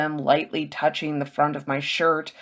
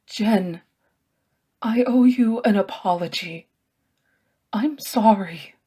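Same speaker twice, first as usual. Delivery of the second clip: whispered apology; 5 semitones higher than usual. Acted. Magus apologizing in the dark.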